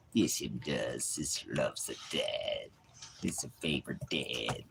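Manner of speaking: low, soft pet-talk voice. Real, not acted. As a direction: murmur fondly to a dog. Baby-talks to his dog.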